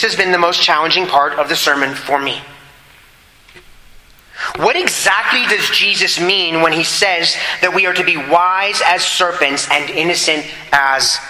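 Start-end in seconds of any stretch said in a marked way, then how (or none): 4.6-8.2 "exactly" punched with a jump in pitch; stress on exactly. Real, not acted. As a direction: lean hard on the word "exactly". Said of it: "I emphasize the word exactly".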